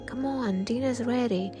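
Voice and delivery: mother calling from another room; mother calling the child to dinner. Acted. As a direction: call cheerfully toward the hallway.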